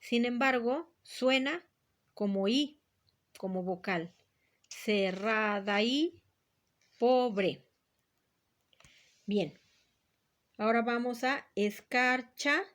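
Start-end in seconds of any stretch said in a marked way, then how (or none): 4.7-7.6 Cerrada y with the y blended into the syllable before, slow; synalepha shown. Shown as a demonstration. Teacher showing Cerrada y merged as a synalepha. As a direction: glide the y into Cerrada. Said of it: "hay una sinalefa".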